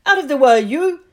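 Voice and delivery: loud, bullying bark; rough angry shout. Acted. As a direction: shove him aside with your voice. Dudley shoves Harry aside.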